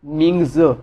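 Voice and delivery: मिंग ज slowly, ending on ज; Chinese mingzi. Shown as a demonstration. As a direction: say मिंग ज, not ming-ji. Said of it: "वो Z को ज की आवाज़ देते हैं".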